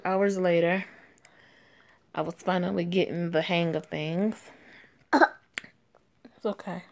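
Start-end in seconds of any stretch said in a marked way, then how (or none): 5.1-6.8 slow hushed reassurance; whispered comfort. Acted. Coworker soothing a fussing child, slow whisper. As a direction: soothe gently under your breath.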